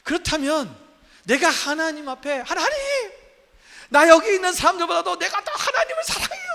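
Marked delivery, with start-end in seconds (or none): 2.4-6.5 praying aloud. Retold or imitated. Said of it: "소리 높여 기도 찬양하는 거예요".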